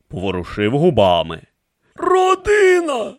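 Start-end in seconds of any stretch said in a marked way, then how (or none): 1.9-3.1 high, slow, softened bark; slightly softened. A narrator's reading. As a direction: let the priest's harsh voice ease a little. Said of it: "голосом дещо м'якішим від свого звичайного різкого гавкоту".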